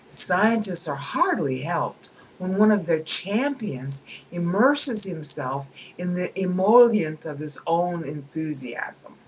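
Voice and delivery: amused read-aloud. Acted. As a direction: read the passage with relish. Reads book passage aloud.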